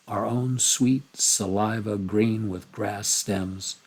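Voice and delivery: slow, gentle reading of the poem; reading a poem to the class, calm. Shown as a demonstration. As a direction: savour each image. Reads the poem aloud.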